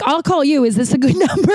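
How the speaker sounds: high, eager quick offer; eager phone offer. Retold or imitated. Offering to FaceTime the wrong woman, high and eager. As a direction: push ahead cheerfully.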